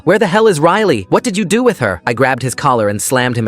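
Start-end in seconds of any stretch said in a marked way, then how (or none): 0.0-2.0 furious shout. A narrator's reading. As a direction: yell it in rage. Father confronts suspected kidnapper.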